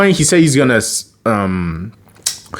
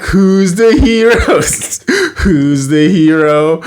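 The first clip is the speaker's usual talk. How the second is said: boastful hero; 8 semitones higher, 4 dB louder, slower than usual. Retold or imitated. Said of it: "and he's like".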